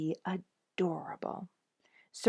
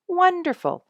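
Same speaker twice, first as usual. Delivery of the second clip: sarcastic; 13 semitones higher, 9 dB louder than usual. A narrator's reading. Sarcastic aside about his fame.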